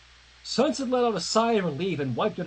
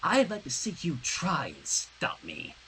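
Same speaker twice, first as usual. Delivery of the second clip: menacing; 3 semitones lower, 5 dB quieter than usual. Acted. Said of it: "narrowed her eyes".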